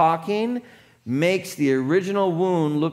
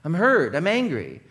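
a little heat; 4 semitones higher than usual. Shown as a demonstration. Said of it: "put a little bit of heat behind your voice".

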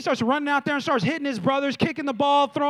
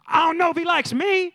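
mock outburst; 4 semitones higher, 3 dB louder than usual. Mock lashing out at scripture post.

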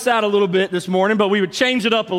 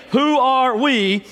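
higher, drawn-out mock cheer call; imitated yell; 5 semitones higher, slower than usual. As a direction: call it out like the lone fan, restrained. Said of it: "then he'd do it again".

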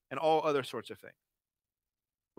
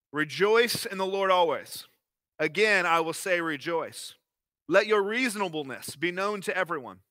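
scripture reading. Acted. Pastor reading Philippians to the congregation, solemn. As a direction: read it like the living word.

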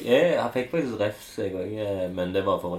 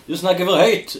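mock yell; 8 semitones higher, 5 dB louder than usual. Mocking the shouting.

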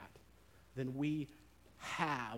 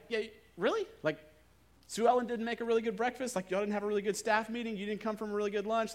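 high, loud, fast disbelieving questions; incredulous teasing; 8 semitones higher, 7 dB louder, faster than usual. Retold or imitated. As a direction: rattle off the guesses, high and fast, half-laughing at him.

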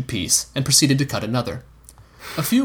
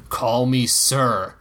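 stern correction; much slower than usual. Acted. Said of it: "Dunk repeated".

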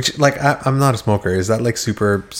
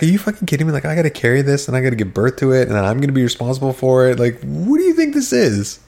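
incredulous retort; 3 semitones higher, faster than usual. Retold or imitated. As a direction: imitate a fed-up girlfriend's disbelief. Retold quarrel, partner's incredulous retort.

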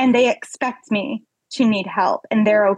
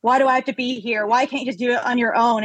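fast, exasperated mock huff; imagined judgmental neighbor huffing; huffing complaint; faster than usual. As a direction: sigh it out like a put-upon helper. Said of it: "this huffing of".

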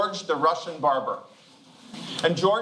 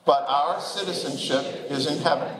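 measured, lower-pitched reading aloud; scripture reading; 4 semitones lower than usual. Real, not acted. Pastor leading the congregation in reading Paul's words aloud, measured scripture reading. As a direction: lead a group reading in even, deliberate phrases.

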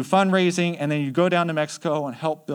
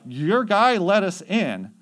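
high, slow, insistent protest; retold protest; 6 semitones higher, 4 dB louder, slower than usual. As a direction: plead your case, stretching the words higher. Missionaries protest while being escorted out.

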